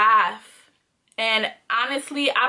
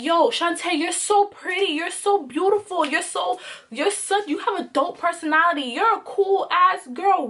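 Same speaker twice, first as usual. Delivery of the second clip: quoted friends; 7 semitones higher than usual. Retold or imitated. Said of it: "other people would tell me".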